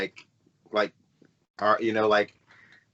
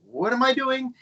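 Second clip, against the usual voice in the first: confused; 13 semitones higher than usual. Retold or imitated. Quoting own confusion.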